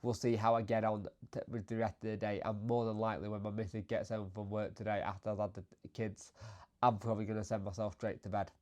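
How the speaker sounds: bunged up, stuffy nose voice; sick with a blocked nose. Real, not acted. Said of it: "I am bunged up".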